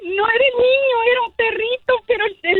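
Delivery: high, teary laughing words; half laughing, half crying as you explain; laughing through tears. Real, not acted. Caller tells hosts the driver's mix-up, laughing and teary.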